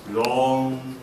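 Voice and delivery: slow, drawn-out words with long pauses; dramatic storyteller. Retold or imitated. Teacher imitating her student's dramatic story opening, slow and halting. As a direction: mimic a shy student's grand slow opening. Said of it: "And then he begins very dramatically".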